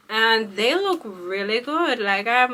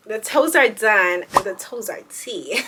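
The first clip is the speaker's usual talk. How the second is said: sassy boast; 5 dB louder than usual. Real, not acted. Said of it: "Clock it".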